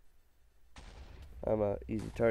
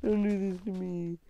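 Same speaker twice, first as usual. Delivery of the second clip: high, loud panicked pleading; frantic, running for your life; being chased; 9 semitones higher, 7 dB louder than usual. Real, not acted. Panicked under fire in game.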